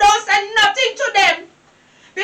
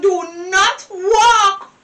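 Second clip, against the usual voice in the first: slow, crying plea not to go walking; tearful pleading warning; slower than usual. Acted. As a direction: beg her through tears.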